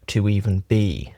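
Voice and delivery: measured meditation teaching with long pauses; unhurried, leaving long silences between phrases; guided meditation. Acted. Teacher talks friends through a closed-eye meditation, guided meditation.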